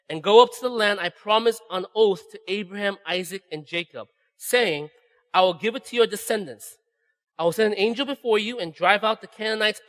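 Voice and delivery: measured Bible reading over music; scripture reading. Acted. Preacher reads Exodus to the congregation, solemn and measured. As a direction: read the verses with weight, unhurried.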